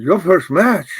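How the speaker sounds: mock disbelief at a rookie; your first match, said incredulous; surprised question. Promoter surprised in retold story.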